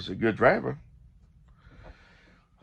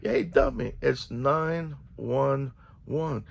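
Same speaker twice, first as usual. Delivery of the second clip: mocking; 3 semitones higher, much slower than usual. Mocking the driver.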